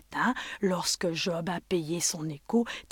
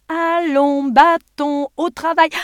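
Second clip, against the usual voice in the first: commanding call; 8 semitones higher, 11 dB louder, slower than usual. Acted. Innkeeper calls the stick.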